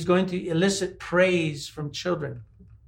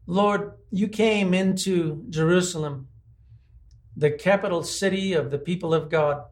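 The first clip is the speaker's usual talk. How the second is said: measured prayer with long pauses; real congregational prayer, spoken steadily. Real, not acted. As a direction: address the Lord unhurriedly, phrase by phrase. Leads a closing prayer.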